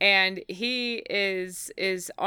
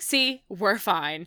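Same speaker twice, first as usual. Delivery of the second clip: put-on sarcastic voice. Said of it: "he turns to Cassie, he's like".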